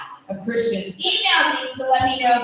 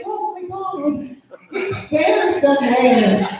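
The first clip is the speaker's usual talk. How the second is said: amazed women; 3 semitones higher, slower than usual. Retold or imitated. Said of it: "The few women in the room were like".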